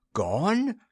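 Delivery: shocked disbelief in one word; a gasp of dismay. A narrator's reading. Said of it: "gasped Kinda Jolly".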